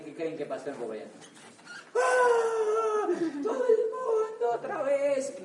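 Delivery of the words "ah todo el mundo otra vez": high shout. Acted. Exclaiming crowd returns.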